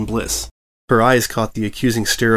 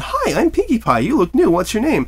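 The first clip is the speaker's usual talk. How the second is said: cheerful greeting; 12 semitones higher than usual. Retold or imitated. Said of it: "I said".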